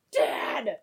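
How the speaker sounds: put-on kid call. Kids calling dad.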